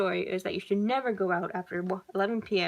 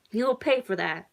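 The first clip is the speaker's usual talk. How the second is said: angry yell; 4 dB louder than usual. Acted. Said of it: "the man yelled".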